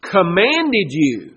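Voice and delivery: both words drawn out with weight; slow emphatic answer. Shown as a demonstration. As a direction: land it slowly and firmly. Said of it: "God says, "I have" what?".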